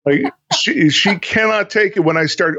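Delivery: normal talking voice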